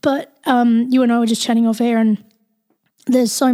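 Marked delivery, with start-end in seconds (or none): 0.0-1.7 a little hoarse and croaky. Real, not acted. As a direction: push through a croaky throat. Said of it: "I'm a little croaky today".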